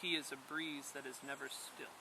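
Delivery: softly, lightly breathed like a breeze; a hushed, airy breeze voice; soft whisper of the wind. A narrator's reading. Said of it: "quiet as the wind that whispered".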